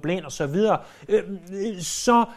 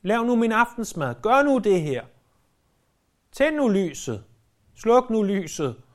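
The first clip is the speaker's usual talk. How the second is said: shouting at Google; 4 semitones higher than usual. Retold or imitated. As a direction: call out to the gadget as if nobody's home. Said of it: "så kan du råbe". (spøgefuldt råb til Google-højttaleren)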